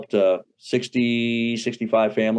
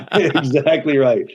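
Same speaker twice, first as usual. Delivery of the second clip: words drawn out through real laughter; higher, slow, laughing as it comes out; laughing agreement; 4 semitones higher, 3 dB louder, slower than usual. Real, not acted. Guest agrees with host's straight-man joke, laughing.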